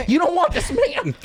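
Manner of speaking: high, laughing mock plea; hammed-up plea. Homeowner talking a robber out of it, hammed-up high plea.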